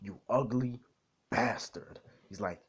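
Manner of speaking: put-on British accent, broken by pauses. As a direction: insult them in a mock British accent. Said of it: "British accent for a bit".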